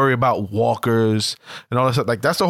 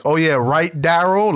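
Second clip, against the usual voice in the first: mocking, fake-agreeable "oh yeah, right"; sarcastic; 3 semitones higher than usual. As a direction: sneer it out sarcastically. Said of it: "Like, real sarcastic".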